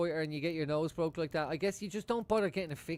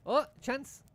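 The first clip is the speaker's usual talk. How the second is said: put-on excited kid; 10 semitones higher, 5 dB louder than usual. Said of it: "kids having a mad crack".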